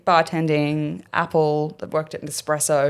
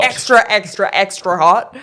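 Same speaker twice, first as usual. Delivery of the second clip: customer service voice; 4 dB louder than usual. Shown as a demonstration. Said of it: "you want a demonstration?".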